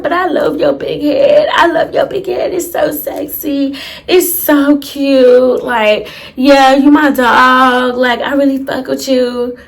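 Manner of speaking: soft, drawn-out flirting; mock sexy voice. Cousin flirting on the phone about his big head, mock sexy. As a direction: imitate a cousin cooing sweet nothings. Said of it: "she got her little soft, grinding, sexy voice going on".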